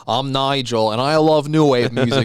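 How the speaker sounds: lightly Australian DJ voice, slow and easy; Australian accent. Acted. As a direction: een Australische radio-dj die zijn muziek aankondigt, licht Australisch accent. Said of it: "best Australian accent I've ever done".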